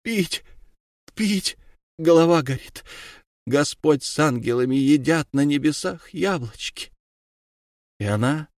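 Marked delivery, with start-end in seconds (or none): 0.0-6.9 high feverish begging for water; delirious raving. Acted. Tortured Katlina raves in delirium, feverish.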